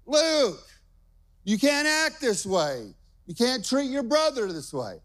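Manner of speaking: high-pitched scolding mom, imitated; Jess, mad. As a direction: scold a child as an exasperated mother. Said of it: "Jess gets mad at Luke".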